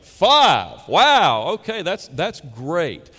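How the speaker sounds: mock amazement. Mock reaction to the liar.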